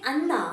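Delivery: ANNA with a dental n on the teeth. Shown as a demonstration. Teacher contrasting it as cooked rice, dental anna. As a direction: say ANNA with the tongue against the teeth. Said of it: "that is a cooked rice".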